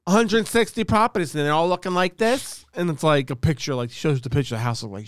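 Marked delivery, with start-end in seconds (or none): 0.1-2.6 mock Judge Judy. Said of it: "she's like".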